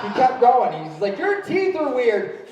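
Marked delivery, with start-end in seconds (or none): 1.2-2.5 put-on high, drawn-out child's jeer; taunting kid. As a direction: imitate a bratty kid taunting, slowly. Imitating kid's taunt.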